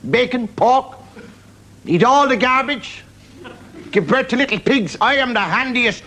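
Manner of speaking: high, drawn-out pig voice; talking pig. Acted. Pig boasting of its uses, high pig voice. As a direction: list it proudly in a high pig voice. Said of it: "and the pig says".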